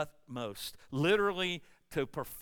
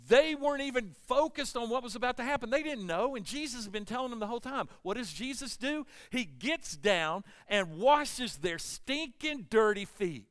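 raised, high preaching voice; emphatic preaching; 7 semitones higher, 5 dB louder than usual. Real, not acted. Preacher on the disciples not knowing, forceful and high. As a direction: press each point home to the congregation.

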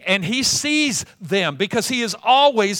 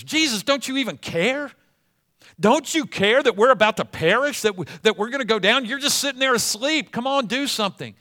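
panicked plea; 4 semitones higher than usual. Acted. Disciples panicking in the storm.

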